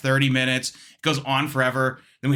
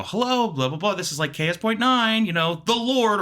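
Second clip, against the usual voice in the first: higher-pitched radio station phone greeting; 7 semitones higher than usual. Retold or imitated. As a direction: rattle off a mock station greeting. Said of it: "and I go".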